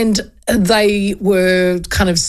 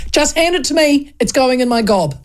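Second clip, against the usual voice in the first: impatient; 5 semitones higher than usual. Retold or imitated. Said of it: "I was gonna go".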